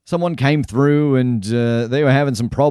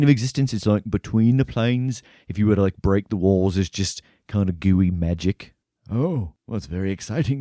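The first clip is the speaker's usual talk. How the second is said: put-on gently curious old scholar. GM voices a quiet professor.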